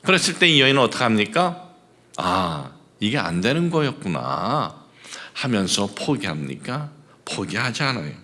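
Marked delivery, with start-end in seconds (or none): 2.2-4.7 soft, low, mock resignation; resigned sigh-like aside. Preacher imagining the woman giving up on Jesus, softly resigned.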